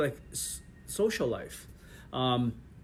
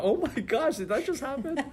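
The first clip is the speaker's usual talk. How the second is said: much higher, laughing mock disbelief; mock shock; 10 semitones higher than usual. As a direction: play the stunned viewer, half laughing. Imitating shocked viewer reaction.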